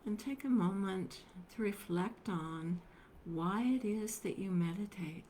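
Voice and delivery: unhurried meditation guidance with long pauses; guided meditation. Acted. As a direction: gently guide them into stillness, leaving space between phrases.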